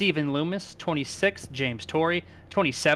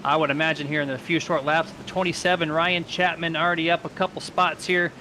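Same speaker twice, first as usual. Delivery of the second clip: live play-by-play; 3 semitones higher than usual. Real, not acted. Announcer calls the green flag for fans, live play-by-play. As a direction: call the start with lift and drive.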